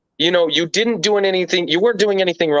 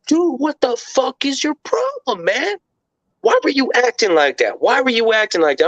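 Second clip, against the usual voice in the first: scolding friends; 8 semitones higher than usual. Retold or imitated. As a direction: talk him down like mates who are fed up. Friends scolding him after fight.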